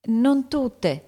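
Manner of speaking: small, high schoolgirl voice; murmured admission. A narrator's reading. Amy answering the angry teacher, murmured admission. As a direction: answer meekly, pitched well up. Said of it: "mormorò Amy".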